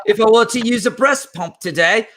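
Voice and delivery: high-pitched put-on British accent. Shown as a demonstration. Player showing friends how the card game works, British accent. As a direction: read it out in an exaggerated high British voice. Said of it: "I'll just do British".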